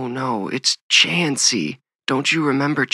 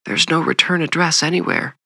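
high, louder, distressed reply; trembling mother; 9 semitones higher, 5 dB louder than usual. A narrator's reading. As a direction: cry it out high and anxious. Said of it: "his mother's trembling voice".

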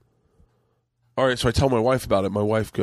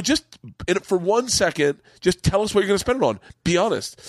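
mildly exasperated, pitched up; a little upset; 6 semitones higher than usual. Retold or imitated. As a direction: urge them in a retold plea. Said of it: "I actually got a little upset".

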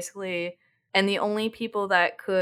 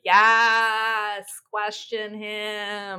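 long drawn-out mock cheer; cheering her on; much slower than usual. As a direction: drag it out like front-row applause. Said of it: "being like".

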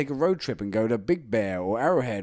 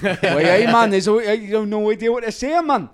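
put-on louder, higher Geordie accent with a laugh; 7 semitones higher, 6 dB louder than usual. Showing friends a Geordie accent, loud and laughing. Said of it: "Can do a Geordie accent?".

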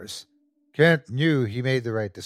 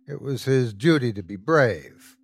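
ordinary delivery, nothing marked

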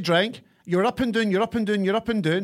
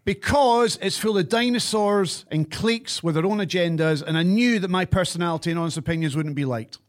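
forced scripted read. Real, not acted. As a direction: recite it like a prepared statement. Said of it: "read that in the most pure forced, computerized".

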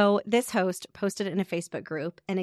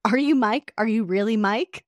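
mock disbelief; 3 semitones higher, 7 dB louder than usual. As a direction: ask it like you can't believe it. Renter's incredulous question, read aloud.

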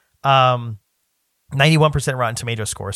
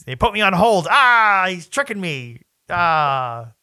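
panicked whiny general; whiny villain voice; 4 semitones higher, slower than usual. Retold or imitated. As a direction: squeal it like a flustered villain.

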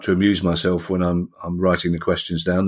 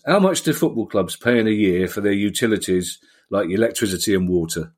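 slightly gruff gruff-farmer voice. Pretend. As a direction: read it as a gruff no-nonsense farmer. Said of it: "I thought I'd do it in a voice to, you know, distinguish from my own voice".

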